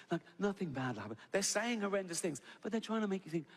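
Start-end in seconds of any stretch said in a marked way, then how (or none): 0.4-1.2 lightly imitated safety-video soothing; a hint of hypnotic announcer; mock calm, hypnotic voice. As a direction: lull them as if nothing is wrong. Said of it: "that calm, hypnotic voice".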